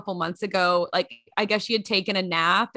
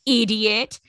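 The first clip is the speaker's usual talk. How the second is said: a hint of a scolding little girl; lightly voiced little girl; 3 semitones higher, 6 dB louder, slower than usual. Quoting a viral little girl to her sister, lightly imitated. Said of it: "it's a little tiny girl".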